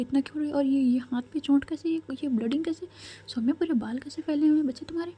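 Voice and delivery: put-on a frightened mother fussing over her hurt child; panicked worry.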